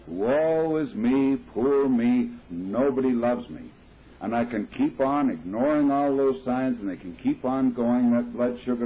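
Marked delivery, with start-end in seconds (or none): 0.1-3.6 slow, drawn-out hammed-up moaning; milk the woe is me slowly; a self-pitying drunk's theatrical lament; mock self-pity.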